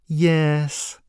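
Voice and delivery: high, slow, sing-song jester voice with a cold edge; a creepy clown savouring each word; menacing jester. Acted.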